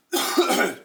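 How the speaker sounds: sudden hacking cough; chesty cough. Real, not acted. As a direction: cough mid-sentence. Coughing during watch review.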